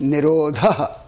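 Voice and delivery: "nirodha" slow, with an aspirated dh; ni-RO-dha, drawn out, with a breathy dh; staccato. Shown as a demonstration. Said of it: "one word at a time".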